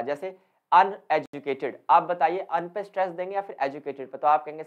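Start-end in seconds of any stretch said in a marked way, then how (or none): 0.7-1.8 अन in अनएजुकेटेड stressed, said slowly; stress on the prefix. Shown as a demonstration. Teacher giving students an example, अन stressed in अनएजुकेटेड. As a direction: lean on अन, then fall through एजुकेटेड. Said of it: "अन पे दिया जाएगा stress".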